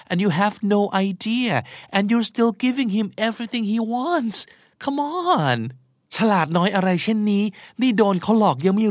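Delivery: high-pitched disbelief at a dupe; exasperated chiding. Acted. Friend chiding someone being taken for a ride, exasperated. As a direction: make them see they are being fooled, voice climbing.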